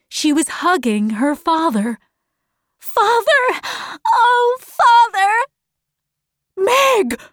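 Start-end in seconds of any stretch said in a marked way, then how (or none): 2.8-5.3 high, emotional outcry; loud, high-pitched burst of relief; overjoyed cry. A narrator's reading. Girl finally hugging her lost father. 6.5-7.2 high, startled cry; amazed, high-pitched exclamation; very surprised. A narrator's reading. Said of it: "her father cried, very surprised".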